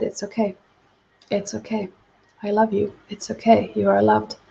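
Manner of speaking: soft, tender reassurance, retold lightly; gently comforting. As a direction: hush him gently like a frightened child. Woman comforts her attacker, retold.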